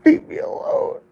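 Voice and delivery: high, loud broken wail of leave me alone; anguished wail. Real, not acted. Drunk man wailing at people who won't let go, anguished. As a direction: cry it out at the top of the voice. Drunk man's crying outburst.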